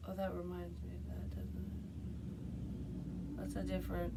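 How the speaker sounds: soft, half-whispered aside to herself; muttered aside. Real, not acted. Speaker reminded of something, murmuring to herself. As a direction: drop to a private murmur.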